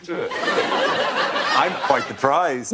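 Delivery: lightly done Southern Belle drawl, very slow; a coy Southern Belle, hammed-up; a Southern Belle accent, barely landed. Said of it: "I love it when you do that accent".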